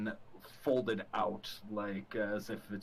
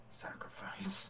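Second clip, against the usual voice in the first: slow, drawn-out whisper; creepy hushed voice; eerie whisper; 9 semitones higher, 8 dB quieter, slower than usual. Pretend. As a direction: whisper it hungrily, stretching the word. Player voices eerie longing for sacrifice.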